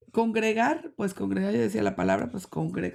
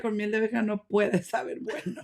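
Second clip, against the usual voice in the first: laughing. Real, not acted. Laughing at onion honey remedy.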